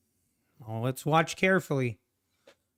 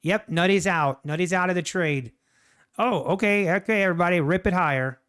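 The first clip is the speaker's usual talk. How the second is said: hammed-up market maker alert, louder and higher; mock alarm; 4 semitones higher, 4 dB louder than usual. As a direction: raise the alarm that Nutty's out. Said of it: "Then it's like".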